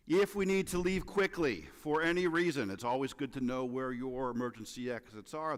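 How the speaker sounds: light flight attendant announcement voice; hint of an airline safety briefing; stewardess voice. Shown as a demonstration. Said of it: "This is my stewardess impression".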